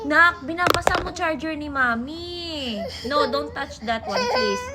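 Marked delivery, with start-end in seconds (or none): 3.1-4.7 crying protest. Real, not acted. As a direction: beg through tears.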